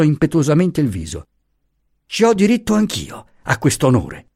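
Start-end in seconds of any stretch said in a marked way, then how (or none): 2.1-4.3 high, ringing, proud declaration; vibrant voice. A narrator's reading. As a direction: claim the honour with a resonant voice. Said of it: "con la sua bella voce vibrante".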